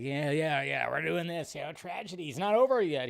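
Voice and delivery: imitating his cheerful take on tragedy; happy. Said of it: "he's so happy about".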